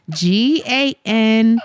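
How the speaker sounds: tipsy, giggling through the letters. Real, not acted. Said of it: "I'm so drunk".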